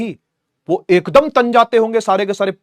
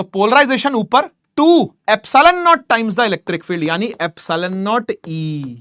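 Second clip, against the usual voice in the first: slow dictation; much slower than usual. Shown as a demonstration. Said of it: "dictating formula".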